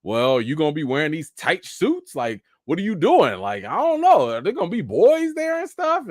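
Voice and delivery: mock fretting, pitch climbing very high; hammed-up parental worry; worried parents, imitated. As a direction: play an anxious parent, voice rising into a squeak. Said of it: "they worried about".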